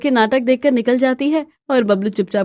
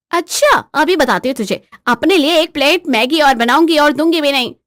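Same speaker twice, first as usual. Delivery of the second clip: threatening wife; 3 semitones higher, 4 dB louder than usual. Acted.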